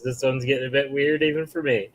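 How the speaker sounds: Swedish Chef gibberish; high mock chef babble into laughter; fake foreign language. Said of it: "your Swedish Chef impersonation sounds like the rewind".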